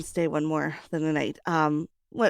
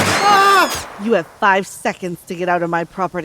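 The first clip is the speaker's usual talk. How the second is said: angry threat; 7 dB louder than usual. Acted. Homeowner threatens intruder.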